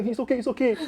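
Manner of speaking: retold nurse insisting she's fine, voiced high; imitating tearful nurse. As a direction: squeak out a brave little it's okay. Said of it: "And you all like".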